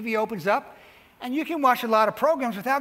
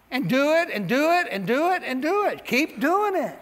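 insistent repetition; 6 semitones higher than usual. Acted. Repeated urging chant.

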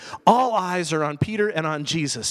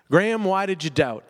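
gentle rebuke to self. Retold or imitated. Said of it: "that's my story again".

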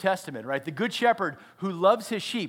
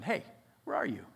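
gentle question; 8 dB quieter, faster than usual. Retold or imitated. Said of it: "with a probing question".

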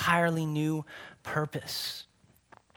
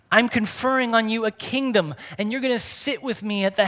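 higher and louder, thrilled; "I'm conferring on you a kingdom" raised high and loud in delight; excited; 5 semitones higher, 4 dB louder than usual. Real, not acted. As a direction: proclaim it with fresh wonder. Restates the verse with excitement.

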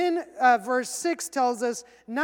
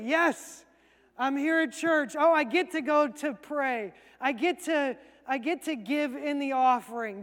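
mildly acted cheer, a touch lifted; cheerful. Churchgoer glad to be at church, mildly cheerful. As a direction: sound glad of the chance, lightly played. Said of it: "That's cheerfully".

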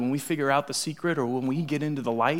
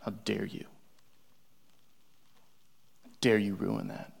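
much softer, low and cold; hushed mock villain disdain; mock contempt; 6 semitones lower, 15 dB quieter than usual. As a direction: hiss it down at them in scorn. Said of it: "stare at someone and go".

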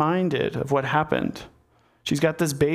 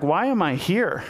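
acted puzzled protest, pitched up in the middle; mild bafflement; 3 semitones higher than usual. Uriah asking David why he was summoned, mildly baffled. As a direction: question it with a touch of disbelief, faltering.

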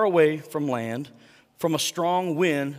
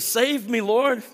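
high, loud cry for help; shouted plea; 6 semitones higher, 4 dB louder, slower than usual. Acted. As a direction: call out desperately like a sinking man. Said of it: "he shouted".

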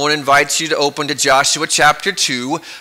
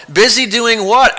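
puzzled boss; 6 semitones higher, 4 dB louder than usual. Acted. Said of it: "asked the boss".

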